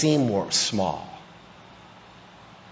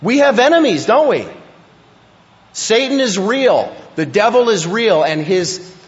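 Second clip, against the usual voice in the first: much higher and louder, urgent warning; loud fervent preaching; 5 semitones higher, 4 dB louder than usual. Real, not acted. Pastor warning the church about demons, loud and urgent. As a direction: sound the alarm from the pulpit.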